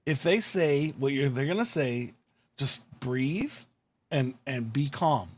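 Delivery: low, soft and slow pep talk; quiet reminder to stay calm; calming self-talk. Retold or imitated. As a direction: talk yourself down, easing off on each phrase. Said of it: "I warn myself".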